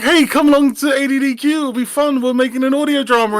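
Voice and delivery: high, quick promotional pitch; hammed-up eager invite, pitched well up; chirpy mock invitation. Speaker mocks their own LinkedIn invite to the stream, chirpy and high.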